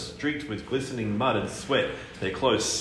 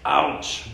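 groan; 5 semitones higher, 4 dB louder than usual. Acted. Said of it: "groaned Tony".

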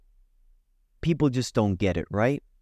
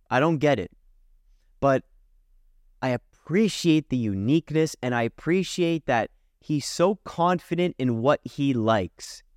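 usual speaking voice

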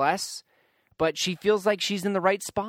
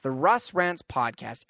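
the Russ Rants podcast repeated slowly and much lower; low dramatic echo; 6 semitones lower, slower than usual. Shown as a demonstration. Host echoing his podcast's name to listeners, low and slow. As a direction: drop into a deep trailer-voice echo of the name.

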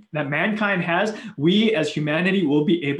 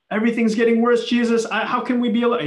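higher, anxious mock complaint; worried disciple; 6 semitones higher, faster than usual. Preacher voicing a fretful disciple to Jesus, higher pitched. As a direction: whine like a scared follower. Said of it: "disciple complaining to Jesus".

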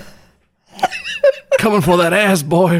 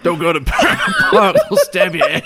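laughing; 2 semitones higher than usual. Real, not acted. Laughing warning about park.

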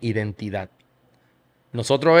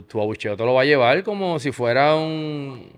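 ordinary delivery

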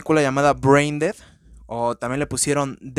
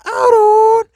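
shouted name; 11 dB louder than usual. Real, not acted. Shouting the show's name at the end of the tagline.

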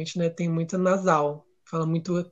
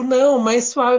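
imitating researcher; 6 semitones higher, 8 dB louder, slower than usual. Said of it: "ela fala, tipo".

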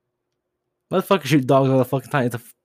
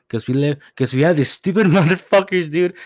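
laughing rant; 7 semitones higher, 6 dB louder than usual. Real, not acted. Ranting, laughing in disbelief.

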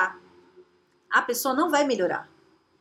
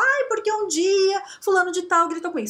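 mock whining; 8 semitones higher, 4 dB louder than usual. Imitando quem se lamenta.

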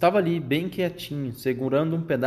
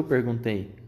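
plain reading voice

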